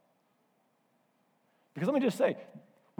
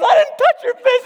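high-pitched, shouted protest; acted loud denial; 13 dB louder than usual. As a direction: play a dad defending himself over the wailing. Dad denies it in quarrel.

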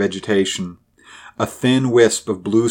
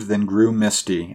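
ordinary delivery, nothing marked

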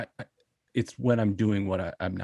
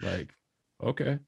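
sweetly passive aggressive. Retold or imitated. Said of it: "it's a very passive aggressive voice".

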